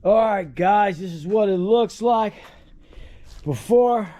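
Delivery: winded after hard work, breathing heavily; out of breath between words. Real, not acted. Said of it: "oh, I'm out of breath".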